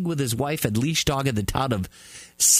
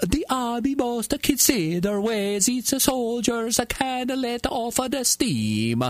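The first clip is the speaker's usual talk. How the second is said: quoted mayor; 8 semitones higher, slower than usual. Retold or imitated. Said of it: "The mayor said".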